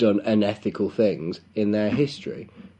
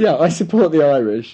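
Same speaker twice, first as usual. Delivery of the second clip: mock fan voice; 4 semitones higher, 5 dB louder than usual. Echoes mock fan line.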